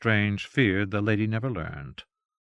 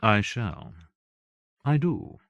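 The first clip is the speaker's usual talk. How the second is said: simply; slower than usual. Acted. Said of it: "she said simply".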